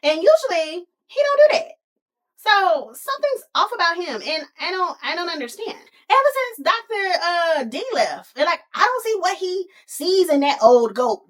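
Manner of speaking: put-on high-pitched, dramatic girly voice; hammed-up complaint way up in the head. Y G complaining to her friend about McDreamy, high and dramatic. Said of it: "Y G is like".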